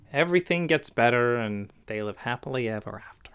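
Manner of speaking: whispered fairy tale ending; hushed storybook whisper; soft whisper. Pretend. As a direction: breathe it like a bedtime story.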